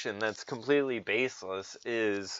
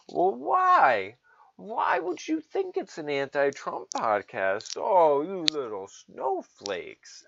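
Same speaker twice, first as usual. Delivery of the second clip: mocking taunt; 3 semitones higher than usual. Mocking liberal voice.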